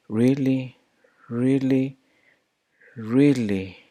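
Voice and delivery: "really" con la R sin vibración; unvoiced R. Shown as a demonstration. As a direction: empuja el aire en la R de "really". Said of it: "can't even hear vibration".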